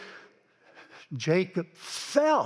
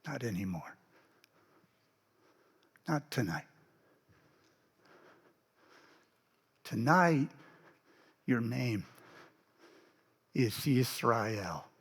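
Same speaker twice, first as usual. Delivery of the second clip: hushed solemn; 9 semitones lower, 7 dB quieter than usual. Acted. Stranger renaming Jacob solemnly.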